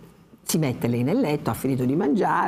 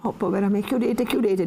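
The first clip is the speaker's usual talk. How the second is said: frightened cry; 5 semitones higher than usual. Acted. Lucia frightened, pleading.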